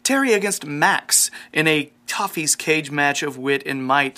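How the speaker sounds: circus ringmaster intro; big showman welcome to the crowd. Acted. Announcing the quiz segment.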